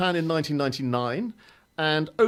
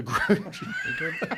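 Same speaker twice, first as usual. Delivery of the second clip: high squeal. Real, not acted. Amused echo of silly name.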